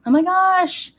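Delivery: high, loud oh my gosh; delighted shock at a comment; a sudden high squeal of delight; surprised squeal. Real, not acted. Reacting to a comment.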